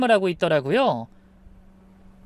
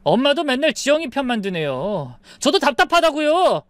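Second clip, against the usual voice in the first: annoyed son; 6 semitones higher than usual. Acted. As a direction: whine in frustration at his mother. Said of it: "짜증을 냈어요". (짜증 내며 높아지는 목소리)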